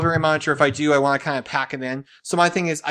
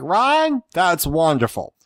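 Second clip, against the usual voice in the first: mock New York thug; 3 semitones higher, much slower than usual. Husband mimicking Jen to friends, hammed-up thug voice. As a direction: play wife Jen as a mafia thug. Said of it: "Jen has turned into, like, thug".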